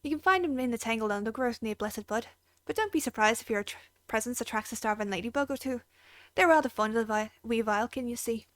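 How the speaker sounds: put-on lightly done Irish accent; a hint of an Irish stable keeper, easygoing. Stable keeper thanking the adventurer, light Irish accent. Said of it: "if you have an Irish accent".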